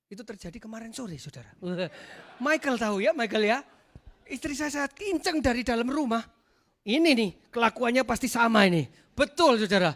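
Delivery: ordinary talk, nothing marked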